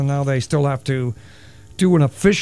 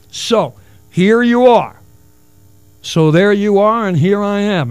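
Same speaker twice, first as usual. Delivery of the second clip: higher, louder, slowed folksy showman voice; George Gobel impression; 4 semitones higher, 5 dB louder than usual. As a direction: lightly play an old TV host welcoming folks. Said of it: "That was my George Gobel impression".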